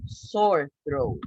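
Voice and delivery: "Sore throat" as two separate clear words; pronunciation demo. Shown as a demonstration. Teacher showing how we say that, phrase modelled clearly. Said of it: "how we say that".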